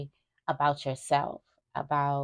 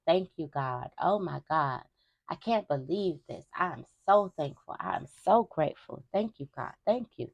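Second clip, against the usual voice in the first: mock joyful shouting. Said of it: "You're going to be shouting out".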